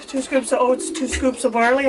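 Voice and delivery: upbeat cereal ad announcer; cereal commercial. Pretend. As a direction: sell the scoops like a TV ad. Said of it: "I sound like a cereal commercial".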